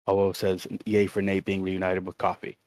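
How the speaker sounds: flat deadpan reading; monotone voice. Shown as a demonstration. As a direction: read it dead flat. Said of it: "reading it in a very monotone voice".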